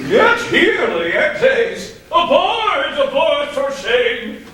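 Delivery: high, loud urgent call; calling out urgently. Acted. Father hurrying son aboard ship.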